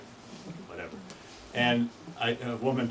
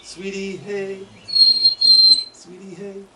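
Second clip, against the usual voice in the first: monotone chickadee call; 9 semitones higher, 11 dB louder, slower than usual. Shown as a demonstration. Vineyard chickadee call again.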